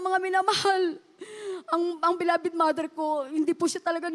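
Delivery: real tears break through the words; fighting back tears while addressing the congregation. Real, not acted. Testimony turns tearful, crying heard. (umiiyak habang nagpapatotoo)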